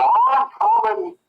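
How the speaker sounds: put-on very high, slow, sloppy drunk call; sing-song the answer like a tipsy man; drunk reply.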